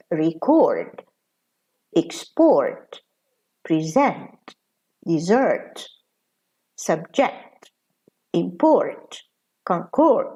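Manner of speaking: verb forms stressed on the last syllable, as in "Record"; quick weak start, strong falling second syllable, like "present". Shown as a demonstration. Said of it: "stress here is on the second syllable".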